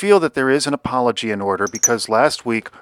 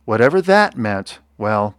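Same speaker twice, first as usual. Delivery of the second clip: sombre, measured read-aloud storytelling; rhyming tale with pauses between phrases; story narration; 2 semitones lower than usual. A narrator's reading. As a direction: tell the ending gravely, letting phrases settle.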